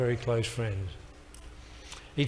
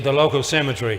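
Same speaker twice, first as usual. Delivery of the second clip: laughing punchline; 5 dB louder than usual. Retold or imitated. Punchline of the joke.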